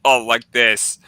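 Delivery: forceful, emphatic "oh"; hard groan. Shown as a demonstration. Friend shows how he went hard, forceful groan. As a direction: hit it hard, no holding back. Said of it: "I went, like, hard".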